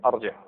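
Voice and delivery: ارجع opening on "a": arji'; fatha on hamza. Shown as a demonstration. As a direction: start ارجع with "a". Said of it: "ما كاينش فتحه". (ارجع بفتح الهمزة)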